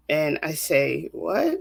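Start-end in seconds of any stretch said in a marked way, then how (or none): 1.1-1.6 shocked. Retold or imitated. Hearing of brother's murder.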